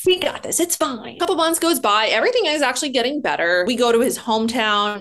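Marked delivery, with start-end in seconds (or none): 0.1-1.2 mock cheerful. Mocking young optimistic self.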